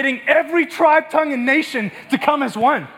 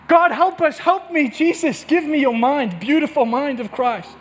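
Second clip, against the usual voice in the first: pleading prayer; 2 semitones higher than usual. Real, not acted. Breaks into a plea to God.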